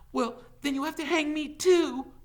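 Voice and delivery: high, loud challenge; defiant outburst. A narrator's reading. Teacher challenging the sheriff, defiant. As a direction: throw it back at him boldly.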